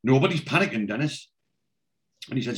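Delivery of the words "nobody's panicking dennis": defensive. Retold or imitated. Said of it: "he gets on the defensive".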